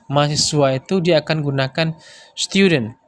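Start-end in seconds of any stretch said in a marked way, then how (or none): 2.3-3.0 student in a British accent, stiuden with a clear t. Shown as a demonstration. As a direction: say student the British way, stiu-dent. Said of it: "Seperti itu dia gaya bicara mereka". (student dengan aksen British)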